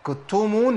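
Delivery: يكتمون very slow, k clamped like a doubled consonant; wrong stopped k. Shown as a demonstration. Teacher showing the mistake of doubling the k. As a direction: stop the breath on the k of يكتمون. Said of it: "لا".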